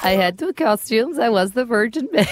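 lightly attempted Colombian accent; Sofia Vergara. Radio host retrying the clip, tentative accent. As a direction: copy a Latin actress's accent, amused. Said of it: "This is Sofia Vergara".

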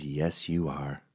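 imitating a soothing, indulgent woman; gently humouring. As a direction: humour them softly and slowly. Woman humours the Timmy character.

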